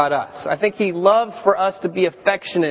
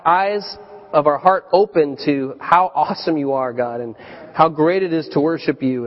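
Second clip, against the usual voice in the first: prayer; 3 semitones lower than usual. Acted. Leads a prayer.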